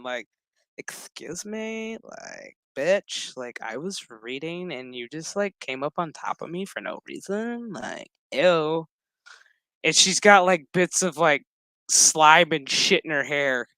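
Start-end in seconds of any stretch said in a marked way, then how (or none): 0.8-8.9 offended mock voice. Voicing offended character.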